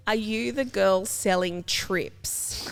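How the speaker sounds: slow, drawn-out stoner question; slow stoner kid. Retold or imitated. Stoned kid asking for drugs at a party, slow. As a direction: ask it slowly like a spaced-out teen. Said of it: "he goes".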